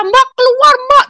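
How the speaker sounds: high, loud acted yell; urgent cry. Younger brother pulling sister to safety, urgent cry. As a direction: shriek a plea to get out. Brother urging her to flee.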